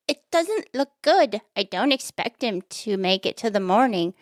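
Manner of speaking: mock doctor delivering bad news; doctor's voice. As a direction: attempt a doctor's voice, settling toward your own. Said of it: "That's the doctor's voice".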